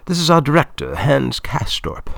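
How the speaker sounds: high, loud voice for Claudia; Claudia, businesslike. A narrator's reading. Film woman introducing her director to Mister Lopat, high and businesslike.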